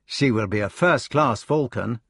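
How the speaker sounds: high, bright and hopeful; eager explaining. Acted. Gareth proposing the falcon's name, high and eager. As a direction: pitch the name proudly to the brothers.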